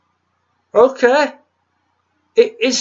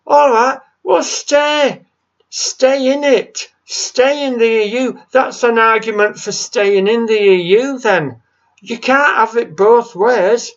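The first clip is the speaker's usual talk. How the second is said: higher, insistent ranting; exasperated rant; 5 semitones higher than usual. Real, not acted. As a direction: hammer the point home in frustration. Angry Brexit rant.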